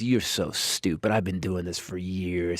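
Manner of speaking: retold cruelty. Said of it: "This is how cruel she was".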